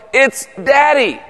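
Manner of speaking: imitated kids' cheer, high and stretched; delighted kids' greeting. Kids going to their father at the door, excited drawn-out cheer. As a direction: mimic children thrilled that dad is home.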